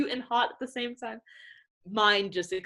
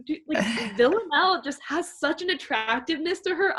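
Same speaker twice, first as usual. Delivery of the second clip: laughing gush; 7 semitones higher than usual. Retold or imitated. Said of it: "I was like".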